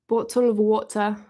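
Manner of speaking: careful, understated British accent; toned-down amateur British accent. Shown as a demonstration. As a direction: try a believable British pronunciation. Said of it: "That's probably more accurate".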